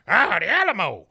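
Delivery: pointing out a landmark with mock awe; mock wonder. Telling the episode, Topsy proudly points out the Alamo.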